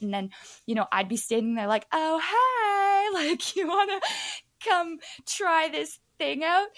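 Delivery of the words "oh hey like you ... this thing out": high, eager sales-floor call with a laugh; bright promoter pitch. Retold or imitated. Teen promoter inviting beer-fest crowds, eager and high. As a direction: reel people in like a booth promoter.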